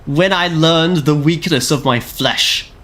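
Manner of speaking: hammed-up grim pronouncement; dramatic flesh-is-weak line. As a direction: intone it slowly like a cold machine zealot. Quoting a dramatic machine line.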